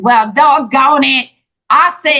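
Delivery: lightly put-on Louisiana accent with stretched words; a touch of slow Louisiana twang. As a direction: imitate a slow, folksy Louisiana senator. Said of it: "You know, that Louisiana accent".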